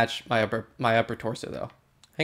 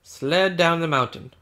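mock king; 3 semitones higher, 3 dB louder than usual. Playing the king in game.

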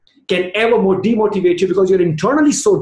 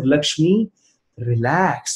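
softer, lower relax after the name; calming self-talk; 3 semitones lower, 3 dB quieter, much slower than usual. Retold or imitated. Mother telling herself to relax, calming. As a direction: talk yourself down gently. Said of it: "trying to tell myself".

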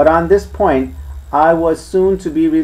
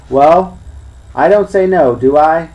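louder, higher, growling retort; growled; 4 semitones higher, 6 dB louder than usual. Acted. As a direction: snap it back like a peeved sailor. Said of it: "growled the coxswain".

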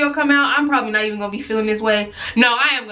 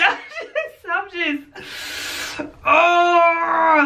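laughing while talking; 7 semitones higher, much slower than usual. Real, not acted. Laughs through irritation.

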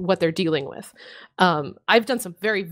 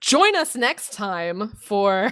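drawn-out show announcer tease; mock announcer; much slower than usual. Host teases next episode to listeners, slow announcer voice. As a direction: stretch it out like a next-episode promo.

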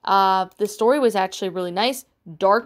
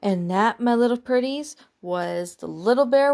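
host teasing listeners, witchy; creepy storyteller; 3 semitones higher than usual. Pretend. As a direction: purr it like a wicked witch.

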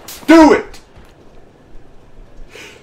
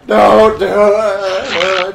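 very slow stretched yell; drawn-out yell; much slower than usual. Real, not acted. Teasing a friend in game, stretched yell. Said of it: "sounds like a throat cancer".

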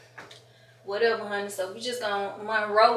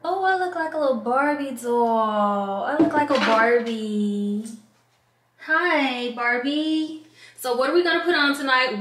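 sassy drag queen; 3 semitones higher, 4 dB louder than usual. Real, not acted. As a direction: play the fabulous queen admiring herself. Admiring herself in full makeup.

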